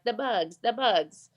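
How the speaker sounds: a weak imitation of a French guest's accent; lightly put-on French accent, mocking a guest fondly. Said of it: "I'm not doing her French accent any justice".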